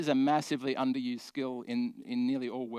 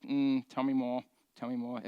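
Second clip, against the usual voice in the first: stereotyped therapist. Shown as a demonstration. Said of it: "You sound like a robot, you know, the therapist".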